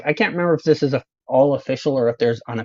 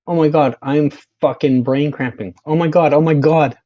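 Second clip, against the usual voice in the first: shrieking jackpot winner. Real, not acted. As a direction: squeal it like you just won. Reacting to a surprising result.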